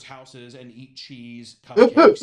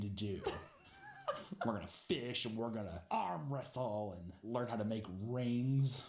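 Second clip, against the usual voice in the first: mock manly bro; 3 semitones lower than usual. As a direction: lay on the manly act, laughing. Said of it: "Zach voiced, laughing".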